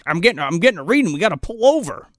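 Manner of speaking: rising, urgent reenacted warning; mock alarm. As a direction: act out a sudden reading on the instrument. Acting out alarm at Geiger reading.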